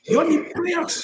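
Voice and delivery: slow mock sermon to rival guests; slow pitying jab. Real, not acted. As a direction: lay it on slowly, like you pity them. Scolding guest on live show.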